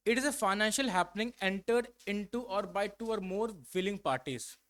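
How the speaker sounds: reads the definition very slowly, word by word; slow dictation. Shown as a demonstration. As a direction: dictate each word for the class to copy.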